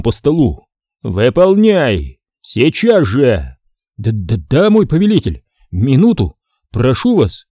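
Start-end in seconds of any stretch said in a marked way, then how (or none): 1.0-3.6 roaring command. Acted. Knight bangs fist, orders. 4.0-7.5 panicked pleading. Acted. Terrified officer pleading.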